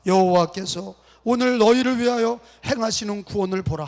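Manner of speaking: joined-up reading. Shown as a demonstration. Pastor leading congregation in unison reading, joined up. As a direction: read through without the long break after "오늘". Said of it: "붙여서 읽읍시다".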